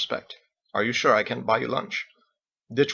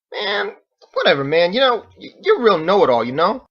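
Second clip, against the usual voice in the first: much higher and louder, exasperated; annoyed outburst; 8 semitones higher, 8 dB louder than usual. Acted. Ditch exasperated with the know-it-all Captain, loud. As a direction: throw up your hands at a know-it-all.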